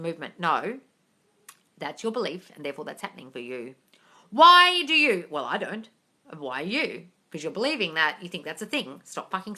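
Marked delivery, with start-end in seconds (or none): 4.3-5.3 higher, louder mocking echo; mock-incredulous repeat. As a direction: throw the question back scornfully. Mocking the viewer's question.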